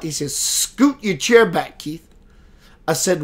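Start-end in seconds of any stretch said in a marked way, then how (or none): 0.4-2.1 slow, measured instruction; slow, deliberate repeat of the order; slow spirit command. Retold or imitated. Voicing the spirit again.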